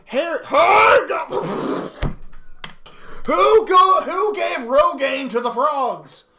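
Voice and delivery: high, loud, laughing through the words; can't read it for laughing; laughing shout. Real, not acted. Laughing while reading frog name.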